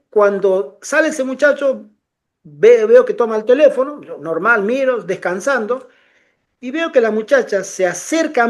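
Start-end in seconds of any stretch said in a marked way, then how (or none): none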